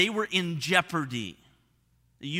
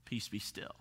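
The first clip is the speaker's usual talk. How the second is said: much softer and lower, almost whispered; hushed calm command; 10 semitones lower, 15 dB quieter than usual. Retold or imitated. Jesus stilling the storm, hushed calm command. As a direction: settle the sea with a soft word. Jesus calming the sea, retold.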